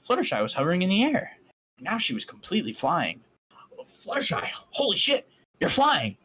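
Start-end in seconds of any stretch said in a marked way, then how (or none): 3.8-6.2 much higher and louder, fast and amazed; ecstatic. A narrator's reading. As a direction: shout it out in pure amazement. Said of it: "I said ecstatically".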